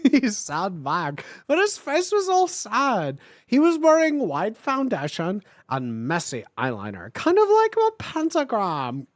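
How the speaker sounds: overdone dramatic fanfic read; lightly hammed-up narrator voice; story narration. A narrator's reading. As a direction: read it like teen melodrama. Reading fanfic aloud with voices.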